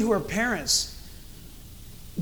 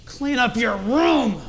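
slow, stern command; threatening order; slower than usual. Shown as a demonstration. Parent ordering a child to tidy up, threatening. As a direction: draw each word out as a warning. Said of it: "You hear the tone?".

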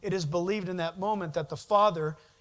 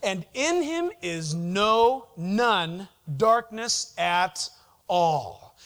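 lightly put-on Jewish New York accent, slowed; a hint of a New York Jewish lilt on "no, none darkness"; mild New York Jewish accent imitation; 3 dB louder, much slower than usual. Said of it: "in his Jewish New York accent".

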